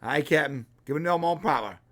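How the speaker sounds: lightly imitated Scottish engineer accent; a hint of a Scottish accent. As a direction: do a rough, passing Scottish brogue. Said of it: "hear the Irish or Scottish accent".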